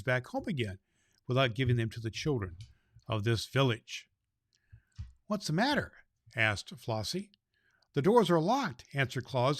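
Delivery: put-on steady storybook reading for children; story narration. A narrator's reading. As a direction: tell the tale to the little ones. Reads a Christmas story aloud.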